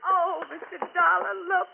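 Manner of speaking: near tears, voice catching as she pleads; a frightened wife holding back sobs; tearful distress. Acted. Wife finds her house ransacked.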